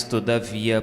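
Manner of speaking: ordinary talk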